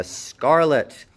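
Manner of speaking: scarlet with the final T held back; slow scarlet, stop on T without releasing it; unreleased T. Shown as a demonstration. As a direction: end scarlet on a silent T closure. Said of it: "Scarlet with an unreleased T".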